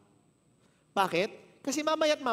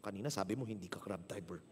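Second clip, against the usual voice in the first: much softer, lower private thought; inner thought; 10 semitones lower, 8 dB quieter than usual. Retold or imitated. Preacher voices his silent thought about the driver, softly. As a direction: think it under your breath. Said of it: "isip-isip ko".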